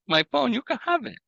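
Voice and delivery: high squeaky joke voice. Pretend. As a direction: pitch way up, playful. Mock offering phone.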